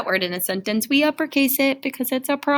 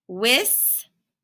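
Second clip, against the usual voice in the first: slow blend. Shown as a demonstration. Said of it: "A little bit faster".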